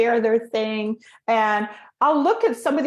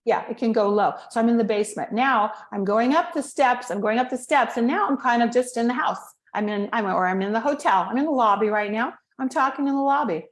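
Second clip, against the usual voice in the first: basement voice; 3 semitones lower than usual. Shown as a demonstration. Coach demonstrating the low step of the staircase. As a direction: keep the voice down in the basement. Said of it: "staircase for speaking goes like this".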